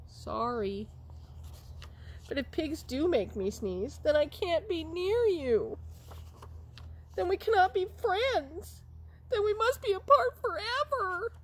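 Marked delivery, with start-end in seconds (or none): 2.3-11.3 rising squeaky voice growing louder; mock-tragic, rising to the last line; high dramatic puppet lament. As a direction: Gerald tells Piggy they must be apart.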